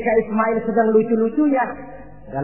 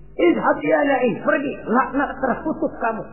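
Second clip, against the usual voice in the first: banishing curse; 6 semitones higher than usual. Acted. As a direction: drive the devil away with force. Ibrahim banishes and curses the devil. (mengusir dan mengutuk lantang)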